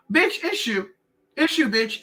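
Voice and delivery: high, sharp sass; sassy. Retold or imitated. Telling off the ex who stole her money, high sass. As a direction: toss it back at him, high and sassy. Confronting thief.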